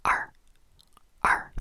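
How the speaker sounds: "R" as Mandarin èr, the "er" sound from the back of the throat; Chinese er. Shown as a demonstration. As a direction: whisper "R" as a throaty "er". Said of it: "And you pronounce it".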